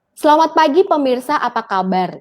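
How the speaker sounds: news presenter's sample greeting; presenter greeting demo. Shown as a demonstration. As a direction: demonstrate a broadcast greeting, falling at the end. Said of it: "Contohnya kayak gini misalnya".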